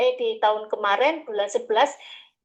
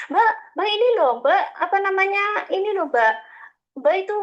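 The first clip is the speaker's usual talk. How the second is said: woman threatening to report her, voiced higher; 4 semitones higher than usual. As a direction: imitate her warning of sanctions. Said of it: "katanya gitu".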